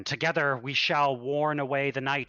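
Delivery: swelling preacher's cry; fervent sermon. Acted. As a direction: abbot pressing on with rising zeal. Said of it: "And he says it again".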